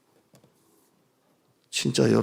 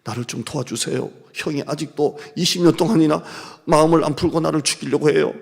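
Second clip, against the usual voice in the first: lightly voiced fearful prayer; a hint of pleading fear; Jacob praying; 3 semitones higher, 5 dB louder than usual. Jacob begging God for help, mildly fearful. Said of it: "이런 기도입니다".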